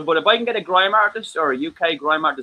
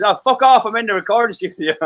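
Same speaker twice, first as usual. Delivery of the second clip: mock angry brush-off; 5 semitones higher than usual. Friend in the studio brushing off a caller, mock angry. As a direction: bark it off like a busy man interrupted. Retold friend answering phone.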